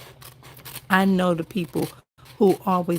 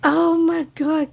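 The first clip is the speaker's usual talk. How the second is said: excited; 8 semitones higher, 5 dB louder than usual. Real, not acted. Viewer she loves joins stream.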